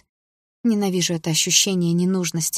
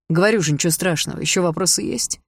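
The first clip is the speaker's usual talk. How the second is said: irritated tone. Acted. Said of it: "Выдал отчим таким тоном".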